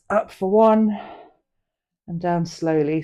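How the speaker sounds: brisk count then slow; up quick, down slow. Shown as a demonstration. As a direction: say "Up for one" sharply, then "down slowly" drawn out. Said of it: "come down slowly".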